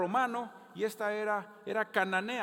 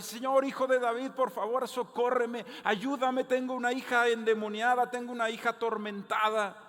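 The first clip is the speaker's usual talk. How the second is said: loud, high pleading cry; desperate cry for help; 6 semitones higher, 7 dB louder than usual. Retold or imitated. A desperate mother calling out after Jesus, loud pleading. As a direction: beg him loudly to help.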